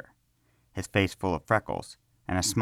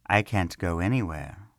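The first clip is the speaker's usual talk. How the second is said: a mild, easygoing reassurance; a touch of kindly calm; pleasant reassurance. Acted. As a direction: put him at ease lightly. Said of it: "Karel reassured pleasantly".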